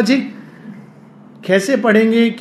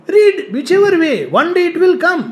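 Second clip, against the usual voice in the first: fervent urging; 8 semitones higher, 4 dB louder, much slower than usual. Real, not acted. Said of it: "urging listeners, raised voice".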